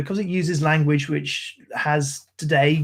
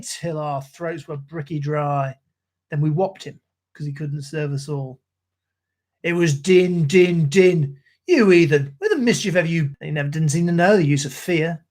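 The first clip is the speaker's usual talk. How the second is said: rhythmic ballad recital in a Cockney soldier's voice; poem recitation. Acted. Streamer reciting Gunga Din to his stream, in a rhythmic Cockney recital. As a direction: recite like an old London soldier.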